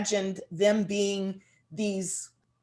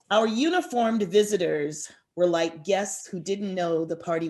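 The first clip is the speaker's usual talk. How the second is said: poem reading. Acted. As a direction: read it like a grim memory, line by line. Author reads her poem aloud.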